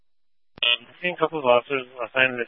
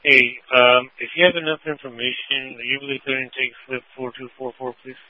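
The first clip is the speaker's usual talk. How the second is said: police radio; 8 semitones lower than usual. Real, not acted. Officer talking over the radio.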